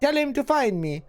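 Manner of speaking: lightly voiced old crone, cryptic; a hint of a hissing witch, riddling; half-voiced hag speaking in riddles. GM voicing crone Ravel.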